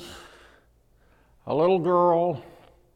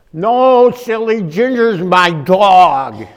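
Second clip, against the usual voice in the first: put-on little girl voice; 7 dB louder, much slower than usual. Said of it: "she says".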